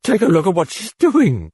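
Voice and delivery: a touch of a quaver. Acted. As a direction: let the fear shake the words. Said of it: "Chris quavered".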